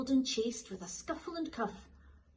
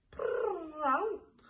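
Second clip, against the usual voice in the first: a high cat's chirrup; a questioning cat call; 7 semitones higher, 4 dB louder than usual. Acted. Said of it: "he called".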